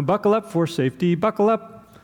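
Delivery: lightly voiced ad jingle; a hint of a radio safety ad; commercial jingle. Preacher mimicking a commercial break, lightly voiced. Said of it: "there's a commercial break there".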